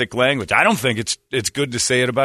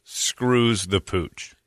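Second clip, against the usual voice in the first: slow deadpan quote; 4 semitones lower, 4 dB quieter, much slower than usual. Retold or imitated. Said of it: "as Brady says".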